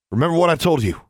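high, loud barked reminder. A narrator's reading. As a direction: bark it as a warning. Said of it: "he barked".

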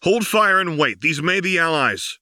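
urgent, loud warning to the troops to wait; shouting. A narrator's reading. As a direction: yell to hold fire above the noise. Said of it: "Lux shouted over the howl".

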